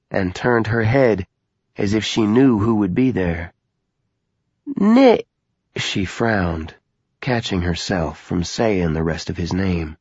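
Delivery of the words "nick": put-on old woman voice. Old woman speaks in narration.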